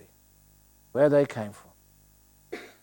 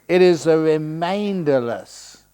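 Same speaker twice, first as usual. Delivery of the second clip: remainderless leaned on, louder and drawn out; stress on remainderless; 2 semitones higher, 6 dB louder than usual. Shown as a demonstration. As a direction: give remainderless a slow, heavy weight. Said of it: "I always stress that word".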